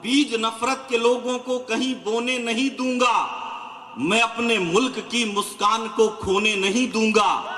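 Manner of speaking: declaiming shayari for the crowd; poetic recitation. Acted. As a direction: hammer home the repeat of बीज नफरत के like a poet. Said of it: "दो लाइनों में मैंने अच्छी बात कही है".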